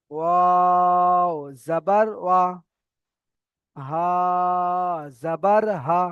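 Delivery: long held letter names, short final syllables; running Qaida recitation. Shown as a demonstration. Teacher finishes the zabar letters for learners, measured chant. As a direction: chant each letter level, then cut the syllable short. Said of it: "অক্ষরে টান যেমন আছে".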